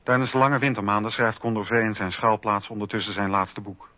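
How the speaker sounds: ordinary talk, nothing marked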